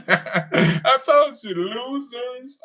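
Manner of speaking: slow, laughing told-you-so; slow laughing mockery; laughing taunt. Real, not acted. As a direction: laugh through the jab at them.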